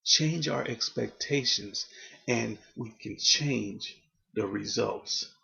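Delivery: slowed, deliberate "Change our expectations" with pauses; slow emphatic repeat. Shown as a demonstration. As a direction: drive the point home slowly.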